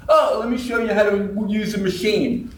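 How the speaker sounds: chirpy know-it-all offer; eager pushy guy. Retold or imitated. Guy hitting on wife.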